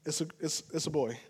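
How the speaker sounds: soft, low embarrassed correction; mom correcting. Retold or imitated. Mom quietly correcting the manager, low and soft. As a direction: gently set him straight. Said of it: "the mom looked at me like".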